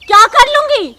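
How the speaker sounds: indignant retort. Acted. Policewoman answering her defiant mother-in-law, indignant retort. Officer throws challenge back.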